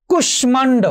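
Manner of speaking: কুষ্মাণ্ড as kush-man-do; sounded ম-ফলা. Shown as a demonstration. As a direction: let the m ring after sh in কুষ্মাণ্ড. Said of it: "মফলার উচ্চারণ হয়েছে".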